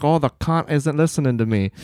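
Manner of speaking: put-on Irish lilt; imitated Irish woman. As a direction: mimic an Irishwoman complaining to her husband. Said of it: "She's like".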